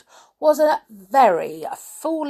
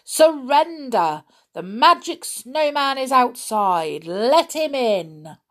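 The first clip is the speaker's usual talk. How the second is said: crying out; 5 semitones higher, 3 dB louder than usual. Acted. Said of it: "they cried".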